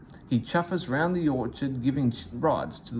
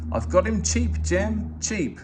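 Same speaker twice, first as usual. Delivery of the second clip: higher and louder, delighted; excited; 7 semitones higher, 5 dB louder, slower than usual. A narrator's reading. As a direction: crow about the bargain. Vicar delighted with bargain.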